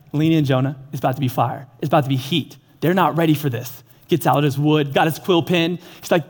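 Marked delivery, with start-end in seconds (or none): 0.1-3.8 voice of God. Retold or imitated. God voiced talking to Jonah.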